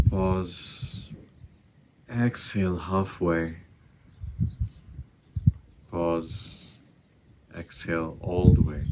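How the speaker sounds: slow, calm meditation voice; guided meditation. Acted. Teacher guiding listeners to find their breath, calm meditation voice. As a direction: ease them into the breath.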